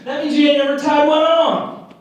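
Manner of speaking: high drawling mock redneck; redneck guy. Imitating the guy who roasts Mormons, hammed-up country twang. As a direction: play the good-old-boy teasing Mormons. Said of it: "You know the guy I'm talking about".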